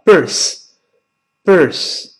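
birth very slow, air out between tongue and teeth; th with airflow. Shown as a demonstration. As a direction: stretch birth out slowly. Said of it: "气流从上牙和舌尖中间出来".

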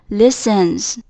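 "listens" with the final s voiced as z; voiced Z ending. Shown as a demonstration. Teacher adding S to listen, "listens" ending in z. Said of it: "读音就会加上Z的音".

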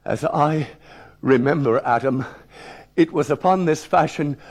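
hesitant reading broken by pauses; reluctant schoolboy reading aloud; halting reading. Acted. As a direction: read cautiously, stalling as the dreaded word nears. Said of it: "I paused before the deadly word".

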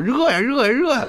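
mock dad. Dad's catchphrase quoted.

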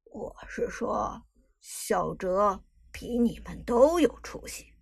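slow, calm, unbothered; calm old man. Acted. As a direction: add it coolly and slowly. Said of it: "老人淡定补充道".

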